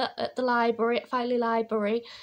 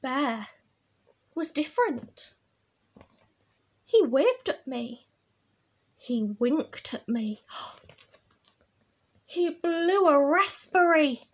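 picture-book storytelling; 2 semitones higher, 3 dB louder than usual. A narrator's reading. Reading Bear's washing mishap to children, animated storytelling.

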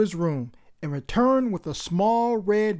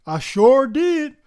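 slow, proud and louder; proudly; 5 semitones higher, 6 dB louder, slower than usual. Acted. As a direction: savour the answer with pride. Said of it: "Malik's dad said proudly".

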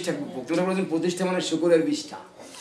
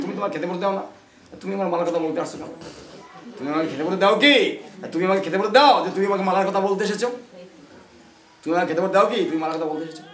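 indignant retort; 3 semitones higher, faster than usual. Retold or imitated. Preacher acts his reply to someone mocking his mala, mock indignant. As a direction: fire back at the mocker, half acted. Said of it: "আমাকে আধা ঘন্টা তো বললে আমি".

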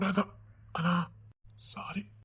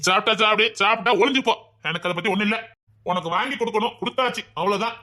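angry scolding; 5 dB louder than usual. Acted. Policeman scolding girl about food.

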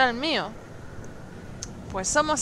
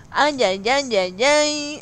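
loud, exaggerated Mexican "ay, ay, ay"; acento mexicano; 2 semitones higher, 5 dB louder, much slower than usual. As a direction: belt it out like a Mexican cheer. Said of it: "su acento mexicano cuando dice ay". (grito mexicano exagerado)

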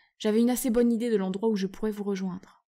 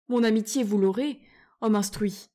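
chirping; 5 dB louder than usual. Acted. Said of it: "gazouilla Ripitchip".

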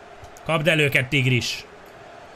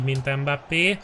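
usual speaking voice

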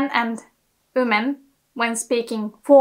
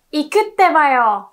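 lightly voiced anime hero, raised and louder; Naruto; 4 semitones higher, 5 dB louder than usual. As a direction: call it out with a touch of anime gusto. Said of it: "Naruto says".

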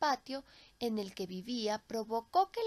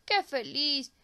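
slow, louder grateful tree voice; a tree thanking its rescuers, slowly; grateful old tree; 6 dB louder, slower than usual. Acted. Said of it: "exclamó el árbol".

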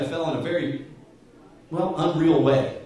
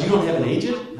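mildly incredulous question, slightly raised; retold disbelief; 3 semitones higher, 4 dB louder than usual. Fellow athlete learning he has no agent, mock disbelief. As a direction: imitate someone taken aback.

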